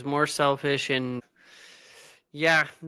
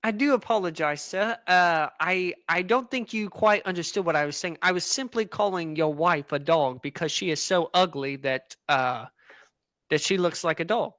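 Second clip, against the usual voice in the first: put-on British accent. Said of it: "are you British".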